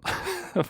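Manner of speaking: brief chuckle to oneself; short laugh. Real, not acted. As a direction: let out a quick, passing laugh. Laughs while wrapping up the stream.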